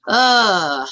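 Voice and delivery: long exasperated "uhh" sigh; exasperated groan. Real, not acted. Streamer fed up with bad science arguments, exasperated groan.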